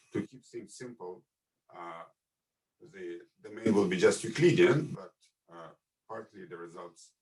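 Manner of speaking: signal dropping out, very faint; fading in and out like a bad line; voice coming and going. Real, not acted. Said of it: "your voice is coming and going".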